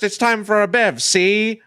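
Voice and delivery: put-on hammy old-timey tough guy; gangster voice. Host introducing the beer segment as a gangster. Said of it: "different voice".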